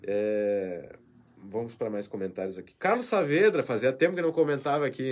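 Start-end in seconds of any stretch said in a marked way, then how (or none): 2.8-5.1 loud, high call-out easing down; delighted shout-out. Real, not acted. Host greeting a long-absent viewer, delighted loud shout-out. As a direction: hail a returning regular loudly. Saúda ouvinte que volta a comentar.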